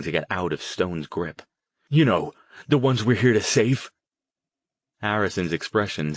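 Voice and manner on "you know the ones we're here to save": high, loud sarcastic jab; angry demand. Acted. Jason struggling in Stone's grip, loud sarcastic jab. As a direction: spit it back at him. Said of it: "Jason demanded".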